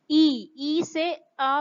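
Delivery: slow ई drawn into आ; slow glide demo. Shown as a demonstration. Teacher slowly showing the vowel glide. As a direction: show the mouth sliding from ई to आ. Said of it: "flow में glide करते हैं".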